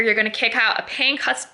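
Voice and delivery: talking through hiccups; words broken by a hiccup. Real, not acted. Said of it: "sorry, I have the hiccups".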